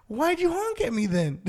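high-pitched mock protest; retold indignant yell. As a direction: call it out after the driver, incredulous. Retold protest to honking driver.

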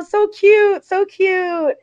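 high-pitched delighted cooing; squeally, repeated admiration; retold gushing. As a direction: imitate a mom fawning over something adorable. Retold mother gushing over merchandise.

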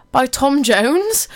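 slow, rising, puzzled ask; puzzled question. Retold or imitated. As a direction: ask it in disbelief. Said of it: "my friend actually messaged me saying".

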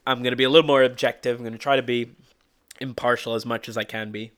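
hoarse from a cold; rough hoarse voice after a cold. Real, not acted. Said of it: "Apologies for my voice".

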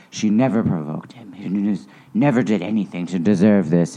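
imitating an emphatic speaker, leaning on "never"; mildly emphatic impression, "never" stressed; Patrick Stewart, emphatic. Podcaster imitating an actor defending his mother, mildly emphatic. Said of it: "he always sounds so emphatic".

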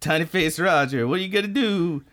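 high, silly tiny-face voice; Roger Tiny Face. Pretend. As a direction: squeeze it up into a goofy little character. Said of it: "Just a tiny little face".

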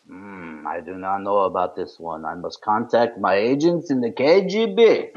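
lightly voiced Russian accent, mock-secretive. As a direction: play a KGB man in a hint of Russian accent. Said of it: "I don't have a Russian accent".

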